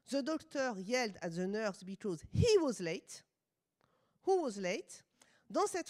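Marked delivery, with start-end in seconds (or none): 0.1-3.2 French-accented English. Real, not acted. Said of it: "vous excusez mon accent". 4.2-5.0 whispered question. Real, not acted.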